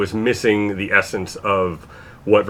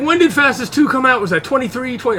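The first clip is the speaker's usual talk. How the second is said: surprised quoted question; 12 semitones higher than usual. Retold or imitated. Quoting someone's surprised question.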